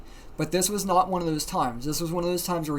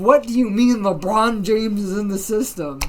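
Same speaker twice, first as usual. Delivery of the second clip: loud, raised mock bafflement; demanding an answer; 4 semitones higher, 7 dB louder than usual. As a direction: imitate friends pressing loudly for an explanation. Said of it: "trying to fucking get an answer out of him".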